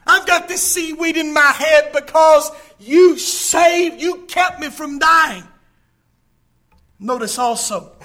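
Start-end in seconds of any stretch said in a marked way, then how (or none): 0.1-5.5 raised, emphatic cry to God; Jonah's prayer. Acted. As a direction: preach it out as Jonah's fervent prayer. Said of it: "He recognizes".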